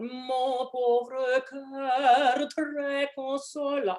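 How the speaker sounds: slow, drawn-out mock melodrama; melodramatic teasing. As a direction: tease him with overdone pathos. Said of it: "The almost melodramatic".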